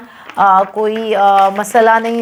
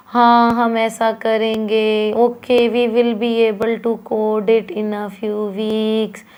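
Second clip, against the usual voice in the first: loose tone; much slower than usual. Shown as a demonstration. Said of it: "अगर आपकी tone बहुत loose है".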